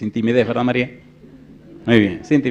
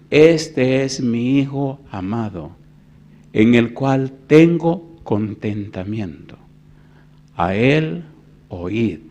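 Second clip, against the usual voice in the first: slow, solemn reading of God's words; 6 dB louder, much slower than usual. Acted. Preacher reading God's words from Matthew, slow and solemn. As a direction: lay each word down slowly. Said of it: "Dice San Mateo".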